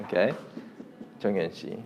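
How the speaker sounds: ordinary delivery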